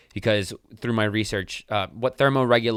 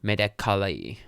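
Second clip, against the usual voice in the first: Presse Medicale in a tentative French accent, pressay medicalee; amateur French accent on Presse Medicale; slower than usual. Shown as a demonstration. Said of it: "I'm gonna try to say this with a French accent".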